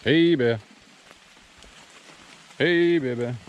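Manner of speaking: loud high-pitched warning call; scaring off a bear. Real, not acted. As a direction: shout out so bears hear you coming. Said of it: "So I'm singing the Hey Bear Bear song".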